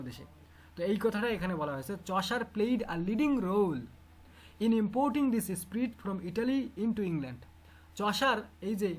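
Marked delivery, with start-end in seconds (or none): 1.9-7.5 measured, deliberate read-aloud; slow textbook dictation; reading text aloud. Real, not acted. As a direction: read it out phrase by phrase to a class. Reads lesson text aloud.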